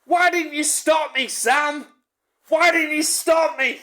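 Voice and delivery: high, loud panicked shriek; mock hysterical wail. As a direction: shriek it, hamming up her panic. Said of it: "and goes".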